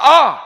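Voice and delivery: loud, high mock groan; acted groan. Preacher voices Paul's suffering in the tiger's mouth, loud acted groan. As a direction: let out a sudden groan that drops away. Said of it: "이 사도 바울의 신음소리가 나옵니다".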